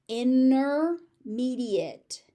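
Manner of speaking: "Intermediate" slow and loud as inner-mediate; dropped T. Shown as a demonstration. Teacher showing the T disappearing, silent T. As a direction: stretch "inner" in "Intermediate", leaving out T. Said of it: "The T just disappears".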